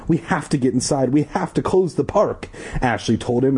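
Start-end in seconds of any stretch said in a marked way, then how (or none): 0.1-2.5 shrill desperate. Acted. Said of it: "in a shrill, desperate voice".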